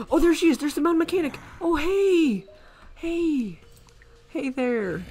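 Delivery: high, bright hello to a character; friendly sing-song hey; cheerful greeting. Real, not acted. Greets freed mechanic NPC.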